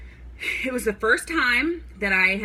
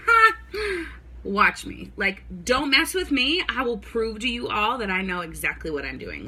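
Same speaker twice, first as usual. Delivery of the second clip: a little attitude. Retold or imitated. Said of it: "got a little attitude".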